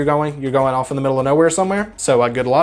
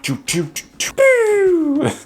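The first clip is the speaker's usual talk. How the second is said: dragon impression. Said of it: "that's my dragon impression".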